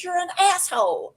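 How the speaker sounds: high-pitched mock insult; imitated girl. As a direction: toss out the insult in a high girl's voice. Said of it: "and she goes".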